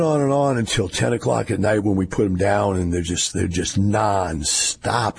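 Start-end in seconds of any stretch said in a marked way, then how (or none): 2.8-5.2 worn-out voice. Real, not acted. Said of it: "you can just hear it in my voice".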